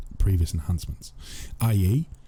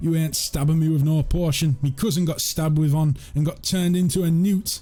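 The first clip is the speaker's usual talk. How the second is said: high, put-on rustic northern English peasant voice; 9 semitones higher than usual. Repeating a peasant's joke line again: northern english peasant accent. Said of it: "it's even better with the accent".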